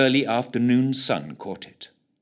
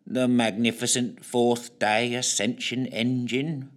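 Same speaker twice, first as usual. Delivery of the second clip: flat, slow grand announcement; joyless intoning; slower than usual. Acted. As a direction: intone it without any joy. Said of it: "intoned Snook joylessly".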